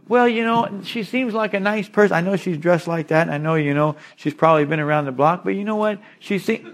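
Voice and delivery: hint of a gullible young man making excuses; mock excuse. Mocking a son's excuse.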